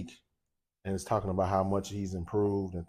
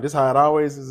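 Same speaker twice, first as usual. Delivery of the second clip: surprised question; 6 semitones higher, 7 dB louder than usual. Retold or imitated. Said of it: "I'm like".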